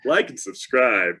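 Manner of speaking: slow, put-on YouTuber plug; lightly hammed-up YouTuber pitch; YouTube voice. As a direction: draw it out like a mock YouTuber. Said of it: "put on my best YouTube voice".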